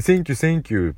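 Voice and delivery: high, lively mock foreigner thanks; foreign tourist. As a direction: chirp it like a happy tourist. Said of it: "みたいな".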